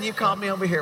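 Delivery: southern Eve. Pretend. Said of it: "I don't think Eve had a southern accent".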